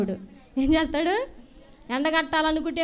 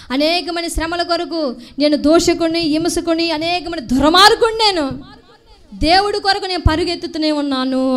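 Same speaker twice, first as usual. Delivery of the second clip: Paul's proclamation, voiced loudly; 5 dB louder than usual. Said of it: "అన్నాడు".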